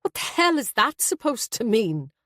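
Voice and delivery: son's touch of sharp irritation; sharper tone. A narrator's reading. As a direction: answer the mother sharply. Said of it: "Her son's tone was sharper".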